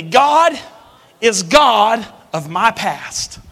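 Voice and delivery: loud, slow, high on God; loud call and response. Shown as a demonstration. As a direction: lead the crowd loudly. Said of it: "Say that with me".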